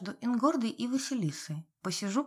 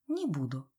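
calm assurance; 4 semitones lower than usual. A narrator's reading. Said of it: "спокойно заверила она".

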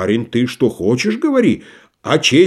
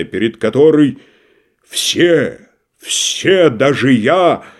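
slow, grand stage declamation; lightly hammed theatrical scorn; declaiming tragedian; slower than usual. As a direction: lift her up, then sneer at him. Tragedian's reverent, scornful tirade.

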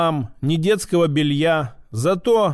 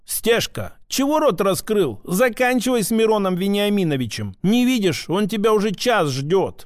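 lightly voiced, higher-pitched bossy tradesman; shopkeeper scolding; 3 semitones higher than usual. Shopkeeper to his idle teenage helper, mildly scolding. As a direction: chivvy a dawdling apprentice along.

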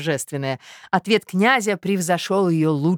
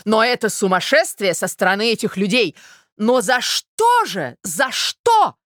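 louder, higher theatrical cry, shouting at the end; higher, louder melodramatic outrage; outraged mother; 5 semitones higher, 4 dB louder, slower than usual. Acted. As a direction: hurl it in mock horror.

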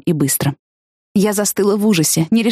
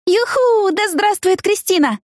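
high, slow, gleeful whoop; joyful cheer; 13 semitones higher, slower than usual. Acted. Heroine to her boyfriend, cheering her friend, high and gleeful. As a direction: cheer her name like a victory.

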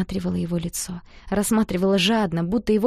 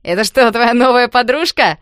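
loud, higher mocking shout; teasing yell; 4 semitones higher, 10 dB louder than usual. A narrator's reading. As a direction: holler the tease across the room. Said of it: "заорал ещё кто-то".

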